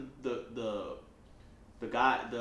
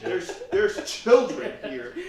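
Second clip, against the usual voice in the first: mock prim scolder; much slower than usual.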